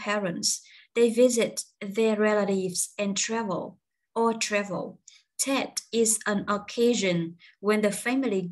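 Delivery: slow, careful English reading for learners; slow reading aloud. Shown as a demonstration. Teacher slowly reads the lesson text to her learners. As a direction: read the text out slowly to the class.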